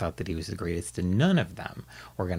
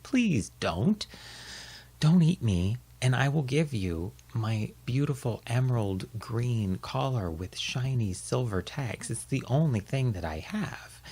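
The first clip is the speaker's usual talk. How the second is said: pleading little dog; 3 semitones higher, slower than usual. Acted. Baxter begs in story.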